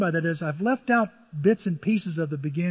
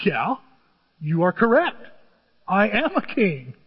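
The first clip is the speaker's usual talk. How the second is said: Jesus' firm answer; 2 semitones higher, 5 dB louder than usual. Acted. Jesus answers Pilate firmly.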